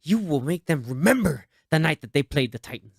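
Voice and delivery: a hint of a fired-up coach; intense coach speech. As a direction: deliver it like a pregame rallying coach. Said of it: "the way he delivers the".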